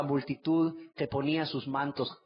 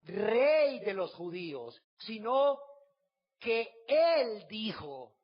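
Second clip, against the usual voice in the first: priests demanding; 6 semitones higher, much slower than usual. Acted. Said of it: "Dijeron a Pilato los principales sacerdotes".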